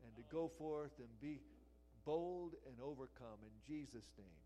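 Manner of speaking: steady, earnest prayer voice; closing prayer. Acted. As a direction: lead the congregation in prayer.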